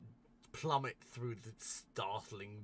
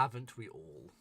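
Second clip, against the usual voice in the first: "Haven't we all" louder and more distinct; repeated for clarity; 3 semitones higher, 6 dB louder than usual. Acted. Game master repeats "Haven't we all" to a player who missed it, louder. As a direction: project "Haven't we all" so it carries.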